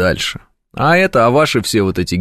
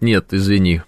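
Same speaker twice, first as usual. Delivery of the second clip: mock polite refusal; 4 semitones lower than usual. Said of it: "Прям хочется сразу сказать".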